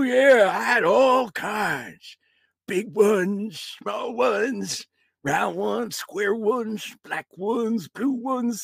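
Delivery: put-on high rambling old timer; old grandpa voice. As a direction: reminisce like a doddering grandpa. Grandpa ghost reminiscing.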